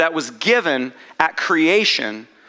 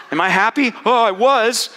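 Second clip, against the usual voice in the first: laughing; 5 semitones higher, 4 dB louder than usual. Retold or imitated. Joking self-quote, laughing.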